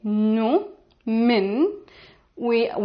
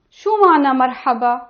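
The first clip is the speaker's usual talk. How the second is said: fast; 4 dB louder, much faster than usual. Shown as a demonstration. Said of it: "And it will be like".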